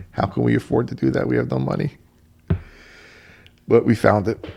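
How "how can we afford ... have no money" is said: alarmed. Retold or imitated. Alarmed at cost.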